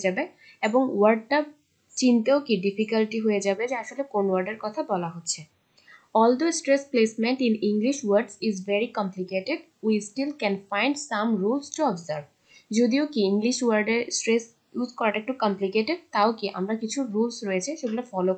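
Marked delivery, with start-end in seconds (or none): 6.2-12.2 reads the English rule out word by word; measured classroom read-aloud; slow textbook reading. Acted. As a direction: dictate it slowly to the class.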